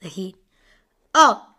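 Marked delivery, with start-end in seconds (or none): 1.1-1.5 surprised. Real, not acted. Score suddenly updates.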